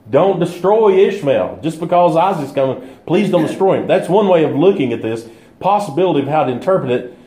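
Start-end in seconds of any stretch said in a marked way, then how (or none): 0.1-3.9 mildly urgent plea; lightly acted appeal to God; pleading. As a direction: plead gently on someone's behalf. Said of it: "he's pleading on his behalf to God".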